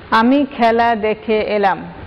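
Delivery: example sentence spelled out slowly, "আমি" leaned on; slow example reading. Shown as a demonstration. Teacher reading the example sentence aloud for students, slowly. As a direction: read "আমি খেলা দেখে এলাম" slowly, word by word. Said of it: "একটু খেয়াল করে দেখো".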